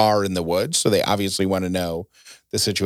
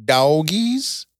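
imitating toddler; 6 semitones higher than usual. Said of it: "Ellie said".

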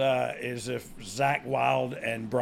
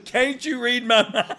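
laughing; 9 semitones higher, 6 dB louder than usual. Real, not acted. Playful banter, laughing.

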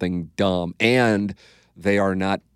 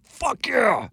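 fired up. Retold or imitated. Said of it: "I'm like".

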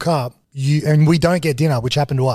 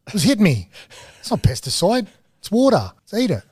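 excited urging; 6 semitones higher than usual. Retold or imitated. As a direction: egg the others on, grinning. Excitedly urging everyone to eat.

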